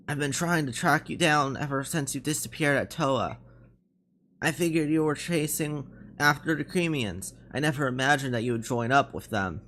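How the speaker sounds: lightly voiced, measured veteran; a hint of a tired officer confronting a former comrade; weary captain.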